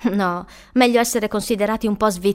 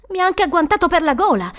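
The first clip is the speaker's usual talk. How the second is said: higher, louder alarmed protest; shuddering; 7 semitones higher, 6 dB louder than usual. Acted. Boy telling woman of being grabbed, shuddering. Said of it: "disse con un brivido".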